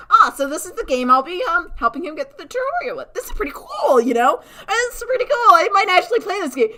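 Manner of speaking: mock excited gamer. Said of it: "So I'm like".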